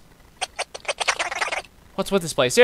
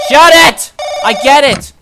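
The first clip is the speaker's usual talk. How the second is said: high, loud snap; yelling back; 10 semitones higher, 9 dB louder than usual. Acted. Tenant yelling at the housekeeper to shut it. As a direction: shout it back at the door.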